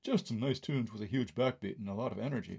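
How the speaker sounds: mock snooty critic's drone; a hint of a snobbish college reviewer; snotty intoning. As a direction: sneer it like a know-all reviewer. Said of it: "intoned snottily".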